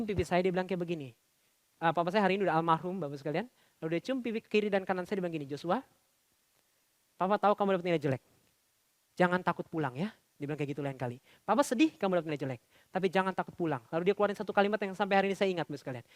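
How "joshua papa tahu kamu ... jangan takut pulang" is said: tender father. Retold or imitated. Dead father comforting scared son.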